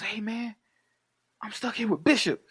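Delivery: high-pitched imitation of panicked pleading; freaking out. Steel on the phone to Q, mock freaking out. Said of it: "fucking freaking out".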